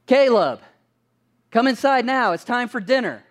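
calling out across the yard; retold yell. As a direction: call the son in for dinner. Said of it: "and I yell".

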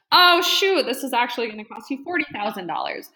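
high, loud "oh shoot" then a quick rush; half-laughing mock alarm at the price; mock dismay. To a lowball client, mock dismayed. Imitating her reply to lowball leads.

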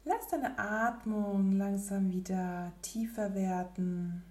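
usual speaking voice

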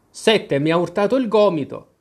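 annoyed. Acted. Cinque blames Sette for the elbow bump, mildly irritated. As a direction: pass the blame with a mild huff. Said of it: "con tono seccato".

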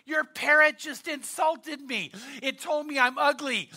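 mildly hammed-up indignation; mock offended. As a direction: complain like an insulted customer, lightly acted. Offended lady complains to owner.

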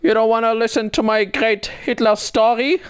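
a high, put-on German accent quoting the sketch; imitating a German accent. Friend quoting a Key and Peele sketch, in a mock German accent. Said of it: "I really love his German accent".

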